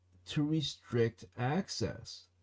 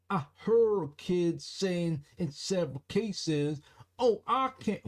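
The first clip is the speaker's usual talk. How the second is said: imitating the resident; 5 semitones higher than usual. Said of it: "let me try to match her voice to her face".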